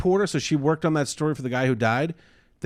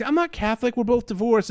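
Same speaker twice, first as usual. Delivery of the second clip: incredulous fiancée; 9 semitones higher than usual. Retold or imitated. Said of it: "She's like".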